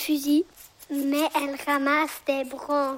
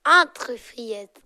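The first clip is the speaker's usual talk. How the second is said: sugary wolf voice; 3 semitones lower, 6 dB louder, much slower than usual. Acted. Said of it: "Une voix doucereuse a soufflé".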